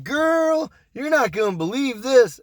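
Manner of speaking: lightly acted juicy reveal to a friend; gossipy reveal. Retold gossip between two women.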